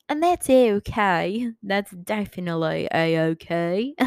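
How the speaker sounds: mock drawled accent; put-on accent. Telling a friend it's okay, in a put-on accent. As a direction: put on an exaggerated accent, vowels stretched. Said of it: "Imagine if I actually talked like this".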